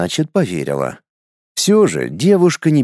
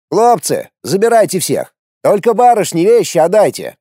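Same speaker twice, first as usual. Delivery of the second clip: ordering; 7 semitones higher than usual. A narrator's reading. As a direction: order the men about. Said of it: "приказал Унгерн".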